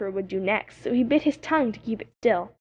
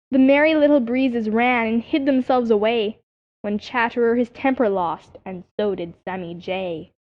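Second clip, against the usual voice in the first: recited verse. A narrator's reading. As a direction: read the chapter poem like a nursery rhyme.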